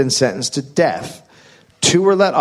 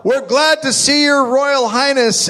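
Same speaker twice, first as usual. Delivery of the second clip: high, slowed mock crowd cheer; 13 semitones higher than usual. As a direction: ham up a cheering Victorian crowd. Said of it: "people shouting such things as".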